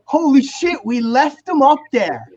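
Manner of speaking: high-pitched mimicked dismay; bandmates' shocked realization. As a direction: suddenly realize he got left behind. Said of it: "They're like".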